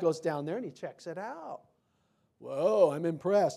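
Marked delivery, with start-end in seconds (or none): 2.4-3.6 sarcastic, falsely impressed tone of feigned awe. Retelling god's reaction to the people's tower, put-on sarcasm. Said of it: "I'm being sarcastic here".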